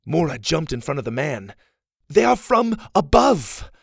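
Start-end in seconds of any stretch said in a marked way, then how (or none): 2.1-3.7 high, loud cry to stop him; a desperate yell to hold off an axe; urgent shout. Acted. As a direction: throw yourself in front and shout. Mora shouts to stop father.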